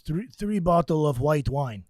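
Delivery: put-on Russian accent. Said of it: "says in his Russian accent".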